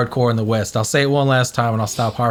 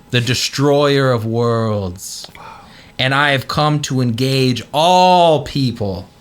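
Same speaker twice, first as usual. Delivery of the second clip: hushed ominous whisper; 2 semitones lower, slower than usual. Retold or imitated. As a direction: breathe it out like a dread secret. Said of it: "he says".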